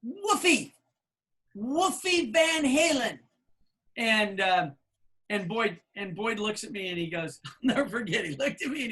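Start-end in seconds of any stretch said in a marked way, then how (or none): 0.0-3.2 put-on higher kid voice, name drawn out slowly; a child patiently repeating his name; lightly voiced kid. The kid repeating his name to Boyd, higher and slow.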